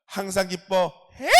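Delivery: slow, emphatic command; proclaiming to his soul. Shown as a demonstration. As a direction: declare it firmly to your own soul. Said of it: "제 영혼에게 선포했어요". (영혼에게 힘주어 천천히 선포)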